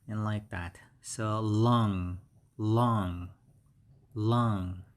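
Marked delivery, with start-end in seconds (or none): 1.4-4.8 LUNG drawn out as one clear syllable, repeated; model pronunciation. Shown as a demonstration. Teacher showing the phonetic symbol for lung, careful repeated model. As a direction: say LUNG slowly for learners to copy, pausing between repeats. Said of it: "the phonetic symbol is".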